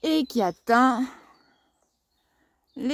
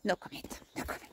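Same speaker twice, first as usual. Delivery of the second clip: whispered aside; 4 semitones lower, 15 dB quieter, much faster than usual. Real, not acted. Aside about lost grape harvest.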